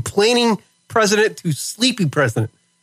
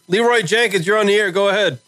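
radio host taking first caller; upbeat on-air call intro; radio contest promo; 4 semitones higher than usual. Acted.

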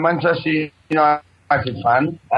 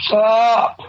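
higher-pitched, cut-in "shut up"; irritated shushing; 7 semitones higher than usual. Real, not acted. Caller silencing a friend heckling his story, irritated shushing.

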